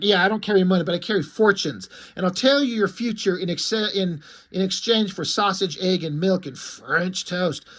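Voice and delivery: a hint of a cheeky girl bargaining; mock gypsy girl. Gypsy girl haggles for breakfast, lightly voiced. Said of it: "She's like".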